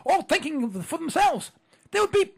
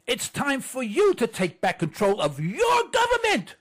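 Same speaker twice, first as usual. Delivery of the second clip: plain. Shown as a demonstration.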